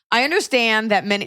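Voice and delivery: put-on extra American accent. Host reading letter after British fight, extra American accent. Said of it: "I'm going, like, extra American".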